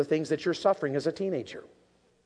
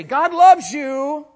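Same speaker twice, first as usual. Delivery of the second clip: loud, much higher and slow; emphatic shout; 8 semitones higher, 10 dB louder, much slower than usual. Shown as a demonstration. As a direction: proclaim "God loves you" slowly at full force. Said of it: "So can I say it in a different way?".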